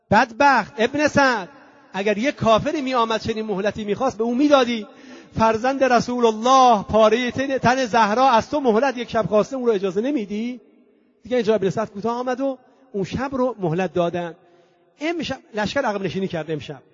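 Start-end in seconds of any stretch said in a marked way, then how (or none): 0.1-10.6 mildly raised, indignant protest; retold outcry. Soldier protesting to Ibn Sa'd over the refused respite, mild outcry. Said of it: "لشکریانش اونجا فریاد زد".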